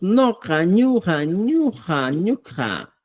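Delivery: "noja, ñuja" drawn out in falling swoops; Cusco pronunciation. Shown as a demonstration. Teacher showing Cusco forms, "noja, ñuja" repeated distinctly. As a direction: model each "ñuja" separately, guttural middle consonant. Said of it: "en Cusco decimos".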